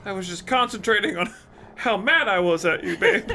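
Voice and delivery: put-on high, bright young girl voice; teen girl voice. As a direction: play the girl Lisa, a little shaken. Reads the girl's lines.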